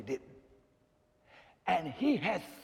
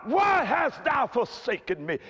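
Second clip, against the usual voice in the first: cry of anguish; 4 semitones higher, slower than usual. Retold or imitated. Jesus on the cross crying out to God, anguished cry. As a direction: cry out to God, then slow down. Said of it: "He cried out".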